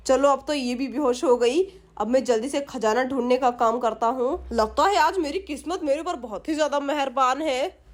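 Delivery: scheming thief musing to himself, lightly acted; a touch of a greedy burglar plotting aloud; lightly voiced thief.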